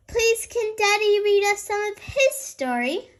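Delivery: pleading piggy voice, sung a little; sing-song little girl plea. Acted. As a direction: coax Daddy in a sing-song. Child pleading for a story.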